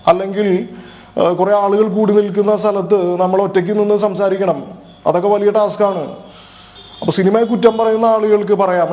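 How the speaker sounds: lightly voiced mimicry, evenly paced; Vinay Fort impression. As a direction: do a light take on an actor giving his view. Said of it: "Vinay, Vinay ഫോർട്ട്".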